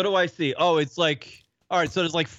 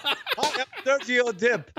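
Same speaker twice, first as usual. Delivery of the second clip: slow, rehearsed TV intro in the mirror; practising his big line, slowly; rehearsing in the mirror; 6 semitones higher, slower than usual. Retold or imitated. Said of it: "in the mirror in his apartment".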